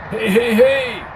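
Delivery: high, loud alarmed protest. Acted. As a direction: protest while scrambling back. Arnie protests while scrambling back.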